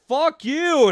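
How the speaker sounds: high mock snarl; imitated kid. Son cursing his mom, high mock voice. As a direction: play the bratty son. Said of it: "He'd be like".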